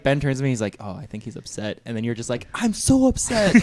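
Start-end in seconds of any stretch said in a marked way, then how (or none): 0.8-1.8 soft imitation of a discreet remark; quiet aside. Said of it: "He turns to him quietly". 2.5-3.5 high, loud, drawn-out imitation of complaining; mock upset outburst. Imitating friend's loud obnoxious outburst.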